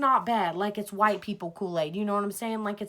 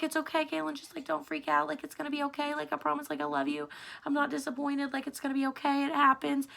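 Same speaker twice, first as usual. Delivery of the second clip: soft, higher-pitched retold reassurance; gently calm her down as mom would; imitating soothing mom; 6 semitones higher, 4 dB quieter than usual. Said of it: "trying to calm me down".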